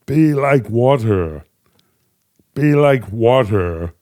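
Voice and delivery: slow, measured martial-arts master line; drawn out like a calm kung fu teacher; Bruce Lee impression. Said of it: "May I hear you say it like Bruce Lee".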